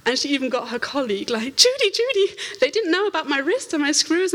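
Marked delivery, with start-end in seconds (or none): 1.6-4.3 excited call. Retold or imitated. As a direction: call her friend over, thrilled. Waitress calling colleague excitedly.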